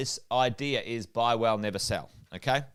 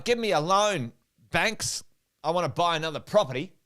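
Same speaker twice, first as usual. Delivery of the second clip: eager borrower; 3 semitones higher than usual. Acted. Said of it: "we're all sitting here right now going".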